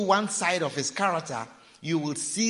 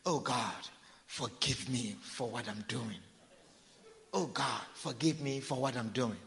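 soft, sighing plea for forgiveness; sighing prayer; 5 semitones lower, 9 dB quieter than usual. Retold or imitated. Adulteress sighing to God after hanging up the phone, soft and sighing. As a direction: breathe it out like a guilty sigh. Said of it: "she will sigh and say".

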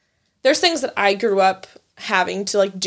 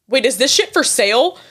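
shocked mom; 3 semitones higher, 5 dB louder than usual. Retold or imitated. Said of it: "And she's like".

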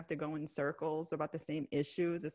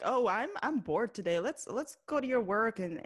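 mocking; 4 semitones higher than usual. Mockingly voicing Devin's whim.

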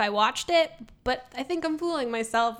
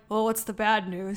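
a hint of Minnesota accent; 3 semitones lower than usual. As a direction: slip lightly into a Midwestern Minnesota voice. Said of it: "like, a Minnesota accent".

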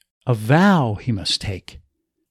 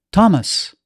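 sharp, higher call of his name; urgent call; 5 semitones higher than usual. Acted. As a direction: snap him out of it. Calling out to shaking husband.

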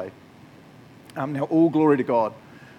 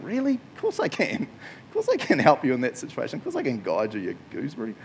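lightly voiced God; 2 semitones higher than usual. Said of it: "God just going".

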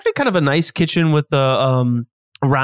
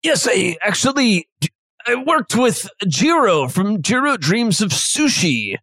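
chef character voice; 3 semitones higher than usual. Acted.

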